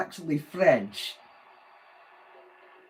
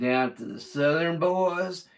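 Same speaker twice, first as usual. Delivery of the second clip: Southern drawl; 2 semitones higher, slower than usual. Retold or imitated. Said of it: "the Southern boys, they talk totally different".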